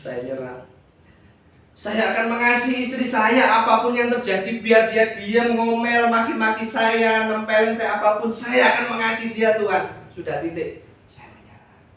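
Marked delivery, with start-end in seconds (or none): 1.7-9.8 fervent vow. Retold or imitated. Fervent commitment prayer retold. 11.1-11.8 whispered surrender. Retold or imitated.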